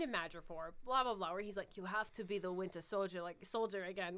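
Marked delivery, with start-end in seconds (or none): 1.8-4.2 put-on shitty Zemo accent. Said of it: "with my shitty accent".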